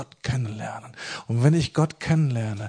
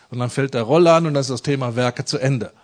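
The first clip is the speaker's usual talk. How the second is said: laughing mockery; 4 dB louder, faster than usual. Real, not acted. Mocking Lutheran view with laugh.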